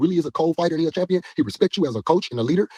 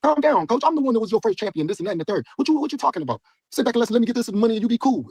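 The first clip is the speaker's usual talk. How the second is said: high mocking voice of a clingy coach; a fighter mocks his coach in a high whiny voice; 9 semitones higher than usual. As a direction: mimic the coach, pitched way up. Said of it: "Then they treat us like they".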